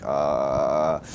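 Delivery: low, drawn-out dazed "uh"; zombie groan. Retold or imitated. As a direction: let out a blank zombie drone. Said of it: "this zombie state of".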